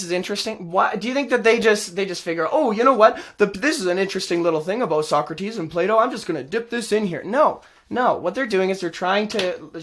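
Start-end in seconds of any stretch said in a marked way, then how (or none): 2.5-7.2 mock casual musing. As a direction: play someone idly having a little idea. Mocking imagined media producer's reasoning.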